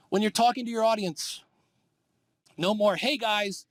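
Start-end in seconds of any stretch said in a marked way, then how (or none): 3.0-3.7 higher-pitched greeting to a whole room; mock host hailing everybody at once; addressing a crowd. Shown as a demonstration. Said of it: "Don't do that".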